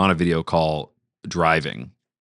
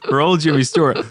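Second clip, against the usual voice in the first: Jimmy Stewart impression; 9 semitones higher, 4 dB louder than usual.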